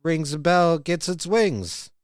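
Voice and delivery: a half-hearted movie-star impression of a tipsy dad; Jimmy Stewart voice. Coach doing his dad's Jimmy Stewart for a student, light impression. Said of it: "his Jimmy Stewart impression".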